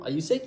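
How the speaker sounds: "sick" tilted upward; quick question, lifting "sick"; rising yes-no question. Shown as a demonstration. Teacher gives example question answered yes or no, "sick" rising. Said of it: "le ton sera ascendant".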